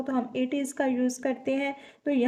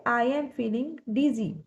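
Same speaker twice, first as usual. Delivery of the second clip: slow dictation; much slower than usual. Shown as a demonstration. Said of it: "हम बोलेंगे".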